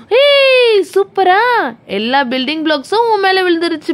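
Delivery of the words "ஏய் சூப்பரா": high, drawn-out whoop of delight; playful cheer. Pretend. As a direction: cheer the crash for a small child. Cheers as blocks fall.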